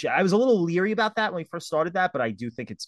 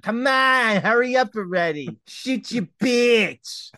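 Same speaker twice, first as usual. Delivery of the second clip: loud and higher, impatient; impatient yelling; 7 semitones higher, 4 dB louder, slower than usual. Retold or imitated. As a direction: rush them angrily. Imagined impatient smoker.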